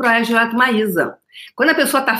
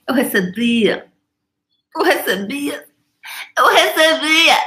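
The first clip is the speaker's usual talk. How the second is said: mock whining; 6 semitones higher, slower than usual. Whining past tense, repeated.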